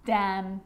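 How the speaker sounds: "Damn" ending on a held M, no N; careful model of "Damn", closing on the lips; silent N. Shown as a demonstration. Teacher giving silent N examples, careful isolated word. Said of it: "it actually is silent when it's next to".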